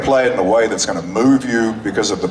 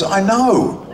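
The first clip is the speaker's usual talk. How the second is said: amused writer; 11 semitones higher than usual. Retold or imitated. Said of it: "He says".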